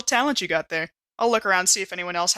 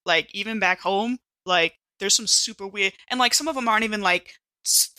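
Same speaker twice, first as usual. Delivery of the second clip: slangy dude voice. Acted.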